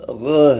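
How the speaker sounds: teacher demonstrating guttural ग; throaty gh sound. Shown as a demonstration. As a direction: push ग out from the throat, heavy. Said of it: "ग आवाज़ को थोड़ा अंदर से भारी करके निकालना".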